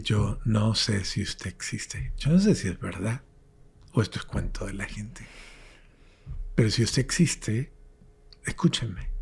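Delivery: hushed, half-whispered plea to God; desperate prayer. Retold or imitated. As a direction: pray it quietly from the depths, words fading to breath. Retells his desperate prayer to God. (oración desesperada en voz baja, casi susurrada)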